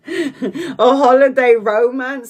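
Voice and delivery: slow, laughing holiday romance said with glee; teasing laugh. Shown as a demonstration. Reader teasing Donna about romance, laughing. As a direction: tease her with a giggle. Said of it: "repeated with laugh".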